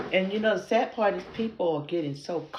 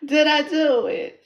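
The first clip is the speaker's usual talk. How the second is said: loud, very high excited question; giddy; 12 semitones higher, 12 dB louder than usual. Real, not acted. Asking viewers whether the accent worked, giddy. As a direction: squeal it out with glee. Delighted at her accent attempt.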